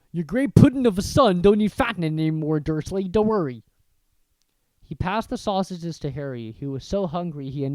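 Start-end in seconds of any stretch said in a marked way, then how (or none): 0.1-3.6 louder giant voice, darkly amused; mock the father with a dark chuckle; dark chuckling giant. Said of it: "The giant chuckled darkly".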